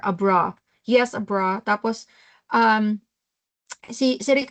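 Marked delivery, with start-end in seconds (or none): 0.0-0.6 "Abra" ending in an open "ah", no R; mimicked Australian "Abra", R-less; dropped final R. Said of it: "Kulang ng R". 0.8-1.6 mimicking Australians saying "Abra" without the R; Australian-style R-less "Abra"; Australian accent. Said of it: "Kulang ng R".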